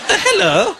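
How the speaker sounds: high, hesitant foreign lady; a confused woman who speaks no English; Eastern European lady. Retold or imitated.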